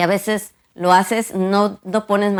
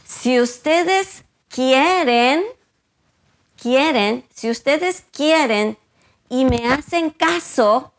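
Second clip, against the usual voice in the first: slow, higher, each phrase leaned on; emphatic scripture reading; 5 semitones higher, slower than usual. Shown as a demonstration. Preacher reads Isaiah to the church, slow and emphatic. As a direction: read the promise slowly so every word lands. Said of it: "escuchen bien lo que dice".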